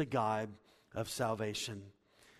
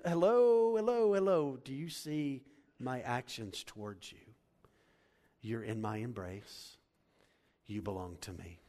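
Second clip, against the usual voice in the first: father's embrace; 4 dB louder than usual. Acted. Father interrupting his son's rehearsed speech, loud then tender. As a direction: cut off the apology, then reassure him gently.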